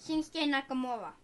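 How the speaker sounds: soft, off-mic answer; said quietly, not into the mic; away from the mic. Real, not acted. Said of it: "You gotta talk into the microphone".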